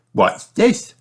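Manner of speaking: put-on high curious girl voice; a little girl finding something; Peppa's voice. Girl spotting something under a bush, high curious voice. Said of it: "says Peppa".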